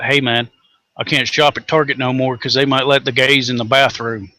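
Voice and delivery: imitating griping Tennessee rednecks; mock complaint in a redneck accent. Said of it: "I say that with a redneck accent".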